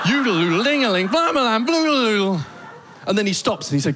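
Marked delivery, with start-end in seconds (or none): 0.1-2.4 mock fast Danish. Comic mocks angry roommate rattling off fake Danish, rising. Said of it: "full one hundred percent Danish mode".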